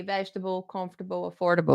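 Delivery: vegetable, comfortable, affordable with short weak endings; VEJ-tuh-bul, KUMF-tuh-bul, uh-FOR-duh-bul; correct pronunciation. Shown as a demonstration. Teacher points out the word endings, correct pronunciation. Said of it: "We're just talking about the end there".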